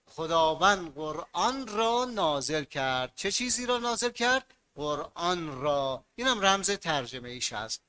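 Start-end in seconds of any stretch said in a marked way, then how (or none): 0.1-3.1 slow sentence with را stressed. Shown as a demonstration. 4.7-6.0 slow, with را drawn out; stress on را. Shown as a demonstration.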